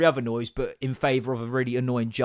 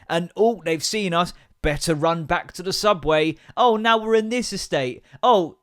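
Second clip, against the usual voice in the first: mocking film recap; 3 semitones higher, 4 dB louder than usual. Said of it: "It's literally".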